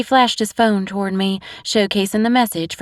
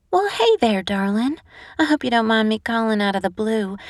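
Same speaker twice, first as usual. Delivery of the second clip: bright, high greeting; sweetly cheerful phone hello; cheery; 3 semitones higher than usual. Acted. Lou calling sick Eve, sweetly cheerful.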